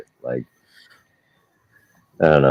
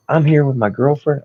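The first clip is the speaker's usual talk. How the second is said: much higher, whiny imitation of the driver; mocking whiny guy; 12 semitones higher, 4 dB louder than usual. Repo man mocking the driver to his cohost, high whiny voice. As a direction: play the car guy as a high, pouty whiner. Driver mocked defending himself.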